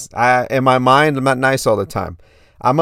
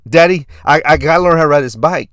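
put-on higher, louder little-kid insistence; impression of a young son; four-year-old son; 3 semitones higher, 5 dB louder than usual. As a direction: protest like a determined small boy. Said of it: "do my best impression of my son".

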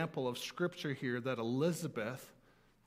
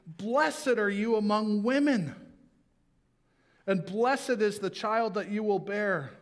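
higher, louder, slowed joyful cry; loud exclaim; 4 semitones higher than usual. Acted. Pastor voicing Elizabeth's exclamation, raised and louder. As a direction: proclaim it as Elizabeth would. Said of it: "In a loud voice she exclaimed".

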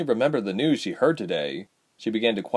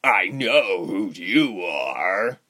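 slow, drawn-out shaky words; slow, unsettled menace; much slower than usual. A narrator's reading. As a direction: say it slowly, as if shaken. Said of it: "he said shakily".

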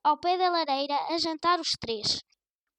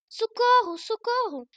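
higher and louder yell for help; shouted cry for help; 6 semitones higher, 5 dB louder than usual. A narrator's reading. Grandmother shouting the story's part to alarm the neighbours, a loud yell. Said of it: "estava a gritar muito alto".

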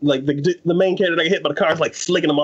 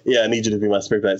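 pushy exorcist; 5 semitones lower, faster than usual. Retold or imitated. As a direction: lower and faster, a lightly voiced pushy exorcist. Exorcist voiced in retelling.

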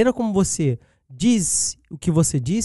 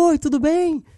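cheerful greeting; 11 semitones higher than usual. Retold or imitated. Imitating a friendly fan greeting.

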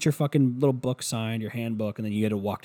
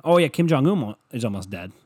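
announced with a sudden loud lift on "Oh, yeah"; excited news; 2 semitones higher, 6 dB louder than usual. Real, not acted. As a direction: blurt "Kim Jong-un" out like big gossip. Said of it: "Isn't that amazing?".

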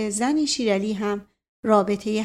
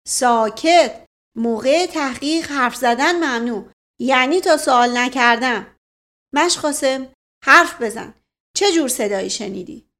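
loud, bossy police-chief order for silence; commanding shout; 3 semitones higher, 6 dB louder than usual. Acted. Aspiran copying his old boss, silencing the room loudly. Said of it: "به تقلید از رئیس قدیم خود ... فریاد زد".

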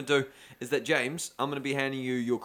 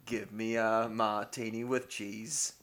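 quoted sketch voice; 4 semitones lower than usual. Retold or imitated. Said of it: "Lightweight James Bond by Pete Holmes".

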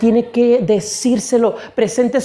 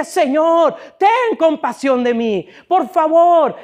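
high, urgent mock plea; acted crying out; 6 semitones higher, slower than usual. Preacher acting Jesus begging the Father, crying out in a high voice. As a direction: cry out for mercy, pitched up. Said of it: "Le gritaba y le decía".

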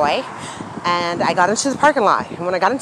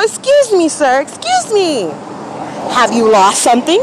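polite call; 7 semitones higher than usual. Retold or imitated. To a confused man in the lot, a sweet polite call. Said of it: "So I go".

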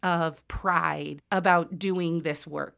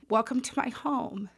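tearful welcome; 6 semitones higher, 5 dB quieter than usual. Retold or imitated. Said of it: "tears running down her face".

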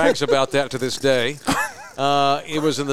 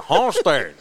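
"Homestead" in imitated Cuban English; Cuban accent; slower than usual. Cuban worker repeating the town to a puzzled driver, Cuban accent. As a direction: give "Homestead" a thick Cuban twist. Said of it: "that Cuban accent kicked in".

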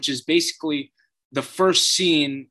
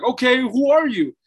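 retold crying; 9 semitones higher, 4 dB louder than usual. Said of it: "And the dude is crying".

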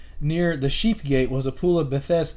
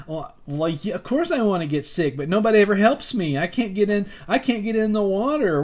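mock whiny voice; 5 semitones higher than usual. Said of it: "you're sick and you're whiny".

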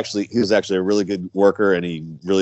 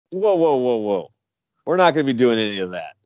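retold halting; 2 semitones higher than usual. Retold halting of an overeager rookie.

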